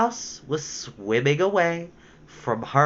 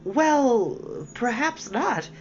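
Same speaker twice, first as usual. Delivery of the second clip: soothing; 8 semitones higher, much slower than usual. A narrator's reading. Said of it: "said Alice in a soothing voice".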